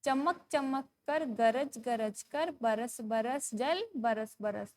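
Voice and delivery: slow, measured sing-song recital; poem recitation. Shown as a demonstration. Teacher reading a poem to young pupils, slow sing-song. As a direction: read each word out slowly for children to follow.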